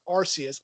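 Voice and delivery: ARCEUS with a soft S, "AR-see-us"; soft-C pronunciation. Shown as a demonstration. Fan threatening to fight, ARCEUS with a soft S. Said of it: "fight anybody who says Arceus".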